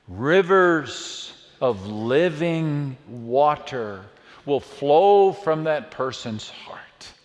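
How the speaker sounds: very slow and weighty; drawn-out reading of a promise; slow, savoring. Shown as a demonstration. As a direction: let each word sink in. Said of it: "look at this invitation".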